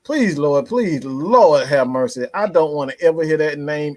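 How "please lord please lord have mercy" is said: drawn-out plea to the Lord; pleading prayer. Real, not acted. Fed-up fan praying never to hear that name, pleading. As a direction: plead as if praying, half in jest. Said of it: "I'm literally praying to God".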